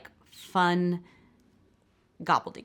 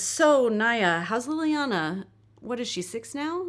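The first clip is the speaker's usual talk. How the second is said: high, loud, drawn-out conversation opener; eager, over-projected social question; chirpy small talk; 6 semitones higher, 3 dB louder, slower than usual. Acted. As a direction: launch brightly into small talk, pitched up. Forced small talk read from script.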